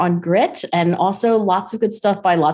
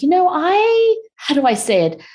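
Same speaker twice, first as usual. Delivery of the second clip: gentle husband; 10 semitones higher than usual. Retold or imitated.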